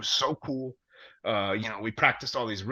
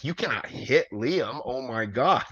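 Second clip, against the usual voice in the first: mock panic; slower than usual. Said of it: "freaking out".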